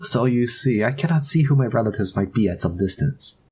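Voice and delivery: put-on French accent. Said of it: "getting better at the French accent".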